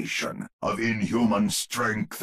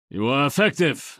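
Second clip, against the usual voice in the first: raised voice, a touch higher, half-admiring; loud grudging praise; 6 semitones higher, 5 dB louder, faster than usual. Acted. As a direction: give credit over the din of battle. Grudging praise mid-battle.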